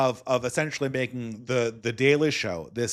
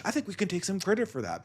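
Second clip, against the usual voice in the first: mock Bill Maher; 6 semitones higher, 5 dB quieter, faster than usual. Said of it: "Bill Maher says".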